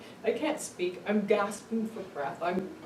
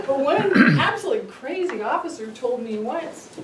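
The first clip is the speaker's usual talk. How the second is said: words spilling through laughter, louder; laughing while talking; 5 semitones higher, 8 dB louder than usual. Real, not acted. Telling the audience about the cop, laughing. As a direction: keep laughing as you start the line.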